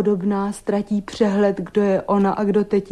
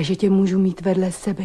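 usual speaking voice

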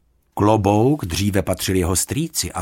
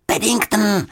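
called over shoulder; 12 semitones higher, 3 dB louder than usual. Acted. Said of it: "křikla Juditka přes rameno".

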